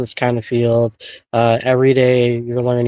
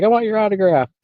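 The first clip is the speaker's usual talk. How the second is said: high, excited imitation of a fan; 9 semitones higher than usual. Cousin asking the new author for an autograph, imitated as excited. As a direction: mimic an eager autograph seeker, pitched way up. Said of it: "she was all excited".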